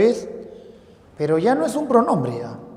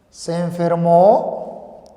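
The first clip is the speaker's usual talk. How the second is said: slow statement; 4 dB louder, much slower than usual. Shown as a demonstration. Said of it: "tú dirías".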